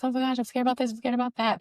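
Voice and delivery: high-pitched imitation of a nervous client; mock panic.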